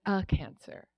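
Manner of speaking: "A" hit with a falling tune, "A cancer"; "A cancer" with weight on "A", not on "cancer"; stress on A. Retold or imitated. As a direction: lean on the article "A" before "cancer". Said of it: "I'll never forget the way she said it".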